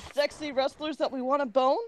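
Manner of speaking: understated blunt delivery; blunt answer. Acted. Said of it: "I answered bluntly".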